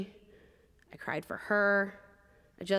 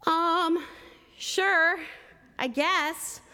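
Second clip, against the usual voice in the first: timid reply; 8 semitones higher, much slower than usual. Retold or imitated. Young chaplain answering the grieving inmate, timid and unsure. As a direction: shrink back and hedge the answer. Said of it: "with all the boldness of a wet paper bag".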